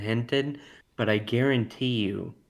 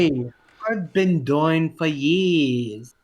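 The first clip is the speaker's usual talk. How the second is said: slow, louder mock Cockney, pitched up; Cockney accent; 4 semitones higher, 4 dB louder, slower than usual. Showing off a Cockney to the podcast hosts, slow and pitched up. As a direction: ham up a Cockney for friends. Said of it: "I can also do a Cockney".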